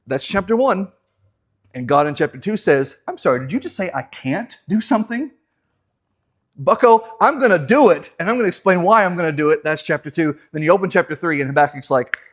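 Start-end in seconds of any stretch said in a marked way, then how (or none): 3.1-9.6 stern rebuke. Acted. God rebukes Habakkuk.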